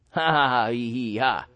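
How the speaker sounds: light laugh after a joke to the congregation. Real, not acted. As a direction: laugh it off at your own joke.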